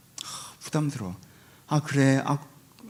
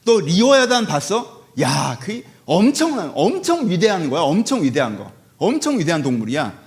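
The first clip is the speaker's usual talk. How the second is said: God's voice. Acted. Voicing God questioning Job.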